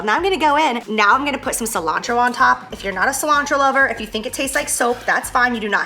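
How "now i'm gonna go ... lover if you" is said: bright beauty-guru delivery; makeup tutorial voice. Pretend. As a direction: talk like a makeup vlogger. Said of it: "like, I'm in a makeup tutorial".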